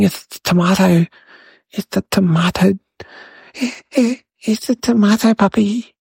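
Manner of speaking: mild mock scream, building in pitch. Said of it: "the kids all started screaming".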